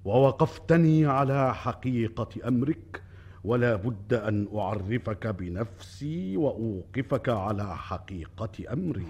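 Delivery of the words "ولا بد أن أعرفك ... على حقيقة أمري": grave and quiet. Acted. King turns to a grave confession.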